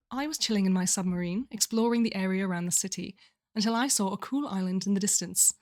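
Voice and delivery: reading in a put-on British accent; lightly performed British narration. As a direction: put on your best British accent to read. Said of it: "in my best British accent".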